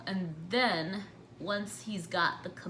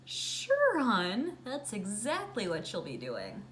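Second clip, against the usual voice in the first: sarcastic dad; 3 semitones higher than usual. Retold or imitated. Dad mocking her plan.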